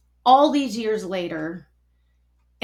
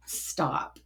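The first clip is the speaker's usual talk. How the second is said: whispered, low command; quiet retold order to halt; hushed stop; 6 semitones lower, 7 dB quieter than usual. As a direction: softly insist they stop. Doctor cuts her off again.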